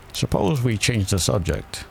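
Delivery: bored storybook hare, half yawning. A narrator's reading. March Hare interrupting the talk, yawning. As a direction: interrupt with a touch of a yawn.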